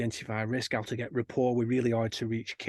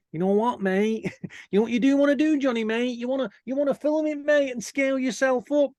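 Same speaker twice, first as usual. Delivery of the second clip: high-pitched, louder mock Scottish accent; 12 semitones higher, 5 dB louder than usual. Filming guy urging Johnny to scale up, high mock Scottish accent. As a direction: imitate a mate in an excitable, high Scottish accent. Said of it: "that's a lovely Scottish accent".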